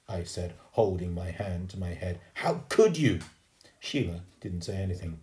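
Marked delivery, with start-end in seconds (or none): 2.3-3.2 high, loud cry of reproach; appalled reproach. A narrator's reading. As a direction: confront a friend who let you down, voice raised. Boy confronts Sheila, hand to head.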